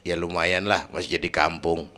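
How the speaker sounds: low, soft, understated answer; modest reply. Retold or imitated. Kiai answering his friend about the mosque, soft and modest. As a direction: play it down quietly.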